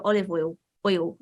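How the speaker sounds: olive oil in a British accent. Shown as a demonstration. Actor showing her own pronunciation, British accent. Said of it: "in British, I, I go".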